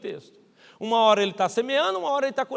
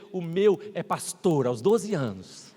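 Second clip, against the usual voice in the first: lower, slow, self-satisfied mother; smug boast; 5 semitones lower, slower than usual. Retold or imitated. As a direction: lay the boast on thick, slowly. Other parent boasting about son.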